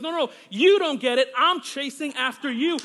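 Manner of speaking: insist, as God repeating himself. Retold or imitated. God's reply retold, insisted again.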